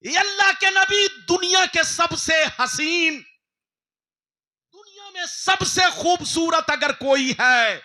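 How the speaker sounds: exalted loud praise; awed proclamation. Acted. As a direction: announce his beauty with awe. Gabriel introduces Yusuf with awe.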